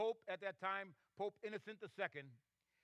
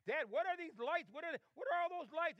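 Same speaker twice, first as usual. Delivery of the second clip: put-on curious child; 7 semitones higher than usual. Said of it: "he asked his dad".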